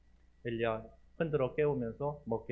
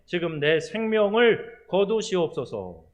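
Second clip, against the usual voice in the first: loud, high anguished plea to God; pleading prayer; 7 semitones higher, 11 dB louder, slower than usual. Retold or imitated. Elijah under the broom tree begging God, pleading loudly. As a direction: cry out begging God to take his life. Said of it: "하나님께 이런 기도를 하는 거예요".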